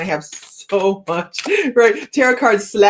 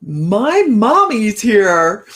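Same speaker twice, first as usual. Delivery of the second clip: excited mommy; 3 semitones higher, 6 dB louder, much slower than usual. Real, not acted. Mother joins the live chat.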